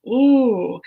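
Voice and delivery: retold sobbing as a drawn-out cry; mock sob. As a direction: let out one long imitated wail. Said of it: "sobbing and I'm".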